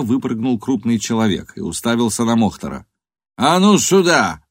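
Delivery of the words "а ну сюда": loud, slow shouted command; shouting. A narrator's reading. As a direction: bark the order across the road. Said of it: "заорал он".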